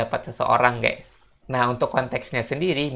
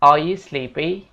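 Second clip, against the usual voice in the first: "Are" with no R, said "ah", a bit louder; British accent demo; British English; 3 semitones higher, 5 dB louder, slower than usual. Shown as a demonstration. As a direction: drop the R in "Are" British style. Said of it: "Kalau di British English mereka bakal bilang".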